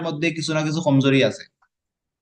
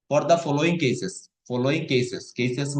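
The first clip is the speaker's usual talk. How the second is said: For the following cases read very slowly, word by word; teacher reading the English slowly for the student; slow read-aloud; much slower than usual. Shown as a demonstration. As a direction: draw out every word of the phrase. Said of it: "ভাঙ্গিয়া ভাঙ্গিয়া আস্তে আস্তে".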